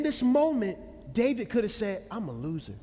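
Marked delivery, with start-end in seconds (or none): 2.1-2.7 retold dejection. David's imagined self-reproach.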